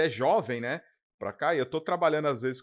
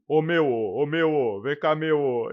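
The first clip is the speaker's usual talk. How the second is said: imitating Paulista accent; 4 dB louder, slower than usual. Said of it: "começar a imitar a gente".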